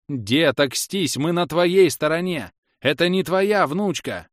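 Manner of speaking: shouted plea. A narrator's reading. Scene: hero shouts to the old man they are allies. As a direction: try to talk the old man down.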